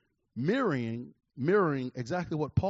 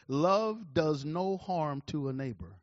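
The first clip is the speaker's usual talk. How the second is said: scripture read; slower than usual. Acted. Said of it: "Romans thirteen ten says".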